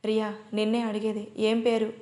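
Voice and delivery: ordinary delivery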